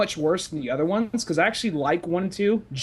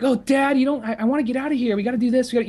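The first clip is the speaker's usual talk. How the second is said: put-on high whiny complaining teen; whiny teen daughter; 8 semitones higher, 4 dB louder, faster than usual. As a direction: whine like a spoiled kid. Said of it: "shitty kids who's always fucking complaining".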